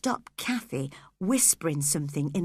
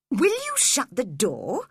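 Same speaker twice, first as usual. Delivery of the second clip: crossly; 3 semitones higher than usual. Acted. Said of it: "he said crossly".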